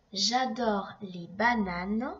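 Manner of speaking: slow, careful reread. Shown as a demonstration. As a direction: read it back slowly. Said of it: "Donc tu as écrit j'adore".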